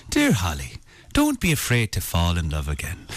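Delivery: lightly put-on low Irish voice; Irish accent impression. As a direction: read the love letter in a mock Irish lilt. Mimics Irish voice from the film.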